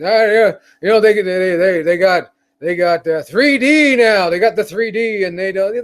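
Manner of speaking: lightly voiced grumpy old man; a hint of an old-timer reminiscing; old guy voice. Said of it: "this is my old guy voice".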